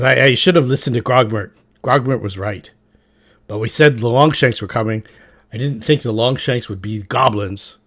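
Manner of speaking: loud, rough goblin chief; Rip Nugget goblin voice. Acted. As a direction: bellow it like a beaten goblin warlord. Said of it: "He says".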